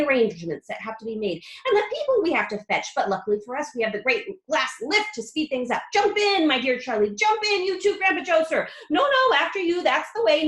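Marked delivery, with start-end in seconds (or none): 5.9-10.5 eager. A narrator's reading. Wonka ushering them in.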